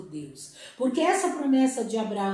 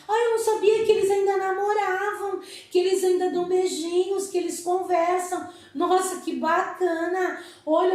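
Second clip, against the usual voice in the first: put-on quick, higher, brighter-eyed child marvelling; delighted child's exclamation; delighted surprise; 5 semitones higher, faster than usual. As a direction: gush like a kid discovering something sweet. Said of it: "você fala assim".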